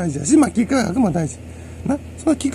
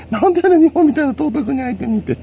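much higher, squeaky mock protest with laughs; mock whiny complaint; 11 semitones higher than usual. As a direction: whine like a pampered brat, pitched way up. (甲高い声でふざけて泣きつくように)

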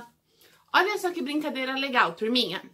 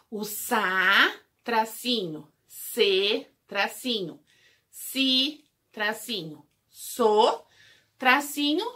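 syllable drill; much slower than usual. Shown as a demonstration. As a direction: spell out every syllable for small kids. Dictating syllables with dashes.

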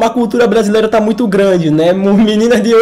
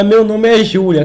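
imitating Júlia; slower than usual. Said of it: "o nível de imitagem é enorme".

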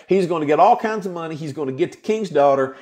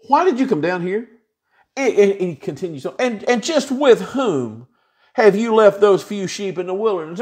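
higher, irritated demand; big brother Eliab scolding David, annoyed and higher; angry big brother; 4 semitones higher than usual. Retold or imitated. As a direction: snap at the little brother. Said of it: "Eliab's anger was aroused against David".

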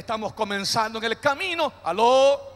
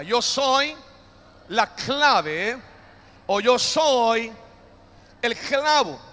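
a bit louder; much slower than usual. Shown as a demonstration. Pastor urging the church to repeat it louder, firm call. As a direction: call it out stronger, like the congregation answering. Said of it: "Un poquito más fuerte".

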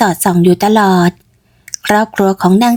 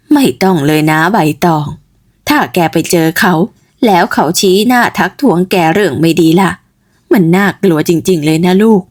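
put-on worried old mother; 2 semitones lower than usual. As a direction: warn your daughter off, worried. Mother warns daughter. (แม่เตือนลูกสาวด้วยความห่วง เสียงต่ำแบบคนแก่)

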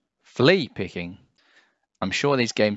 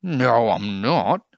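scowling; 3 semitones higher, 5 dB louder, slower than usual. A narrator's reading. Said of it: "Jim scowled".

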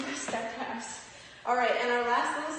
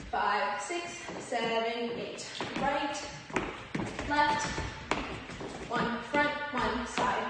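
calling dance counts; much slower than usual. Acted. Calls steps while dancing.

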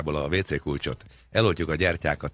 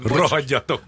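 high, loud heckle at the rival team; hammed-up terrace shout; mock fan yell; 9 semitones higher, 6 dB louder, slower than usual. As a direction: yell it like an angry supporter, played for laughs. Acting a fan abusing rivals.

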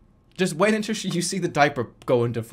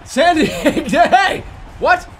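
laughing; 12 semitones higher, 7 dB louder, slower than usual. Real, not acted. Laughs at wrong city.

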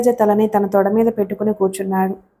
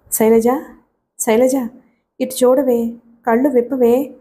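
ordinary delivery

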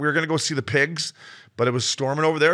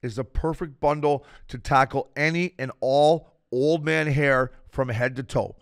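upbeat sponsor pitch, slower in spots; ad read; 4 semitones higher, slower than usual. Acted. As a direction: sell it like a podcast ad.

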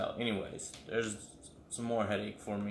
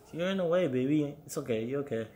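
pet talk; 4 semitones higher than usual. Real, not acted. Talking to the dog.

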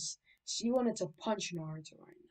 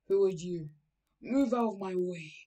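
rude demand; 5 dB louder than usual. Acted. Naruto confronts the stranger.

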